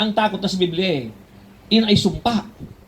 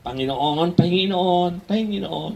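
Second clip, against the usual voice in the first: begging prayer; much slower than usual. Retold or imitated. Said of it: "Puro nang hingi".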